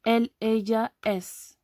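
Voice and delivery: "él, ella, es" with ll as dj; demonstrating pronunciation. Shown as a demonstration. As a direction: say "él, ella, es" separately, "ella" as "edja". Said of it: "ça se prononce plutôt".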